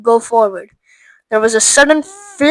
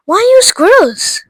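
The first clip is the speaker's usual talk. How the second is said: whispered question; 11 semitones higher, 6 dB louder than usual. Acted. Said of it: "Mike Teave asked".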